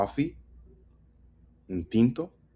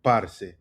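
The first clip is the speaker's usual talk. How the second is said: "Parce" as PAR-se, falling after PAR; stress on PAR. Shown as a demonstration. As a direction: punch the start of Parce. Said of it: "Emphasis on the par".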